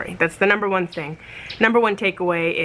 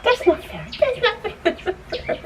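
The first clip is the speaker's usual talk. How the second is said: mock protest; 10 semitones higher than usual. Real, not acted. Two puppies attacking her.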